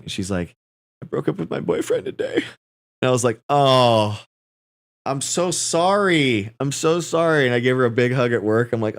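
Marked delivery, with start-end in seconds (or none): 1.0-2.4 very high, mock-tearful girlfriend voice; imitating a heartbroken coworker in a squeaky pitch; upset girlfriend. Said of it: "she's upset". 3.5-7.5 sympathetic. Retold or imitated. Comforting coworker after breakup.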